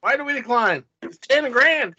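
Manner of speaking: incredulous. Real, not acted. Baffled protest.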